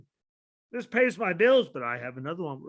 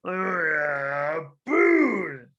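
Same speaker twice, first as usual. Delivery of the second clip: mock cheer; much slower than usual. Mock wrestlers reacting.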